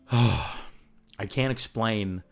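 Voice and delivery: sighing, slowed right down, voice catching; struggling to get the words out; choked up with emotion. Real, not acted. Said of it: "I'm gonna get all emotional".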